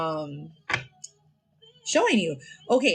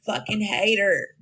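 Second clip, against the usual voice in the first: imitating a hater; slower than usual. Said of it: "I used to know somebody that used to talk like that".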